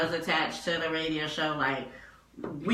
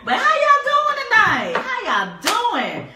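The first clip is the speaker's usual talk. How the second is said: high, laughing hello to the audience; giggling host welcome; laughing greeting; 6 dB louder than usual. Real, not acted. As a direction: laugh as you greet the crowd.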